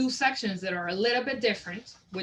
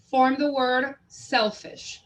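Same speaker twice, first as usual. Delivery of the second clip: slow teacher prompt; 3 semitones higher, 3 dB louder, slower than usual. Shown as a demonstration. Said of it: "I can tell them".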